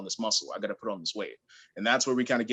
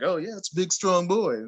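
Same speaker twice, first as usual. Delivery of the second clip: raised, louder mock cheer; imitated hype; 8 semitones higher, 4 dB louder than usual. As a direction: hype him up like one of the guys. Imitating guys hyping him at school.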